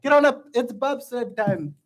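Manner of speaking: mock Jamaican bobsled chant; Jamaican accent. Player warming up with Cool Runnings quotes, Jamaican accent. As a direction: try a drawn-out Jamaican movie line. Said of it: "Give me Cool Runnings".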